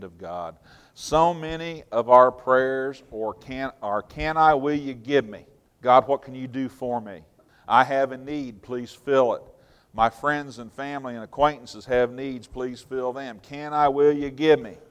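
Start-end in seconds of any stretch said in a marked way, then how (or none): 4.0-14.8 put-on whiny child. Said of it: "Sounds like a two-year-old".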